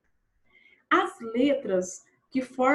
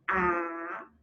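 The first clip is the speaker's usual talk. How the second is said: syllable by syllable; 5 semitones lower than usual. Shown as a demonstration. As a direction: split it up: a... pai... xo... na... da. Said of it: "Separe a palavra em sílabas". ("apaixonada" separada em sílabas, bem devagar)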